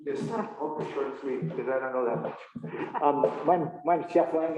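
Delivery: muffled through a face mask. Real, not acted. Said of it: "Can you hear me through this mask?".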